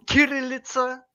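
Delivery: Kirillitsa with a hard K at the front; hard K pronunciation. Shown as a demonstration. Guest showing host where the name comes from, hard K in Kirillitsa. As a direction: start Kirillitsa on a clear K sound. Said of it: "this is the correct pronunciation".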